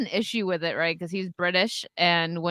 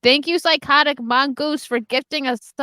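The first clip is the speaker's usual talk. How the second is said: slow, louder and higher thank-you; excited thanks; 5 semitones higher, 7 dB louder, slower than usual. Real, not acted. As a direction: thank the donor with delight. Thanking a gifting viewer.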